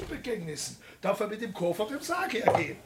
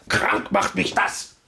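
louder, slow and anguished; bitter outburst; 4 semitones higher, 5 dB louder, slower than usual. Acted. Bach tells Gottfried his frustration, slow and anguished. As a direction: spit it out, sick of it all.

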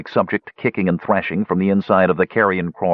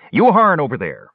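shouting; 7 semitones higher, 3 dB louder than usual. A narrator's reading. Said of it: "Flint shouted".

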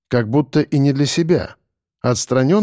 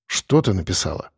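grumbling displeased; 6 semitones lower, 4 dB quieter than usual. A narrator's reading. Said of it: "пробурчал я недовольно".

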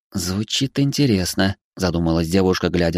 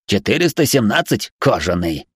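sarcastic robot monotone. Acted. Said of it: "ехидно ответил робот".

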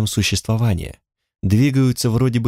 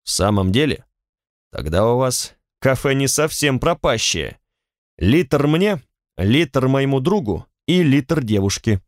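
pleased, overjoyed; 3 semitones higher than usual. A narrator's reading. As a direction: perk right up with glee. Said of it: "Шерлок спросил обрадованно".

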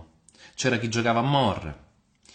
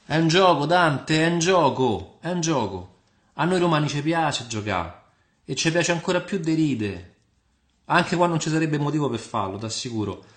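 higher, animated Roman character voice; Roman joker Nino; 6 semitones higher, 5 dB louder than usual. Acted. Nino tells Dante that Romans love joking, in a high, animated voice. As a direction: play a Roman explaining the game, pitched up.

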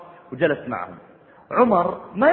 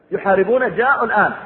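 alarm; 6 semitones higher, 5 dB louder than usual. Retold or imitated. Umar fears an enemy attack.

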